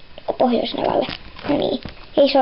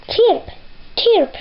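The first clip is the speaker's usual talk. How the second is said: bird chirp; 6 semitones higher than usual. Acted.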